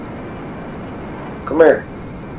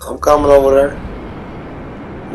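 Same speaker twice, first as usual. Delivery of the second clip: lightly voiced announcer; 5 dB quieter, much slower than usual. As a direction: deliver like an arcade narrator. Fighting-game announcer quote.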